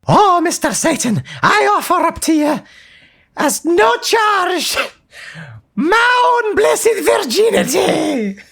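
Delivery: hammy seductress. Acted. Offering her soul to Satan, hammed.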